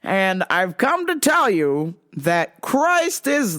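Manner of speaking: slow, drawn-out, lightly voiced solemn guy; a hint of a slow solemn stranger. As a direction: announce it slowly like a strange preacher. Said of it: "the guy's like".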